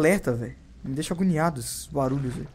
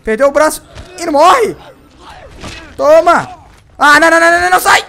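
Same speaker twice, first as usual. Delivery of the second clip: high, loud screams at zombies that won't die; panicked screaming; 13 semitones higher, 16 dB louder than usual. Real, not acted. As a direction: yell in real panic, way up high. (gritos de pânico, bem agudos e altos)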